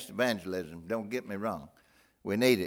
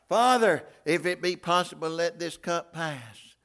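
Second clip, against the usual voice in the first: anguished prayer; 6 semitones higher, 8 dB louder than usual. Acted. Jesus praying again.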